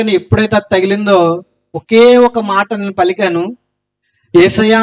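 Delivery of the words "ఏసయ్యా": a louder cry of Esayya, not full force; retold cry to Jesus. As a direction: call out Esayya a bit louder, like a retold plea. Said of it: "అని గట్టిగా అరిచానండి".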